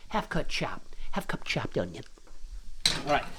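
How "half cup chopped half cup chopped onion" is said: voiceless, whispery repeat; hushed aside. Pretend. Cook repeats the onion amount to viewers, hushed aside. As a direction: drop the voice out into a whispered reminder.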